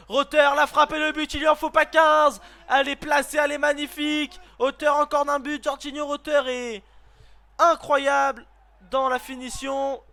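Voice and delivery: loud excited goal shout; roaring commentator praising the finish; goal call. Real, not acted. Goal scored in live commentary.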